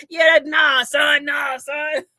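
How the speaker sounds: teasing echo of East Coast slang; imitated East Coast accent. Host teasing friend about accent, imitated East Coast accent. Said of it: "You the one got the accent".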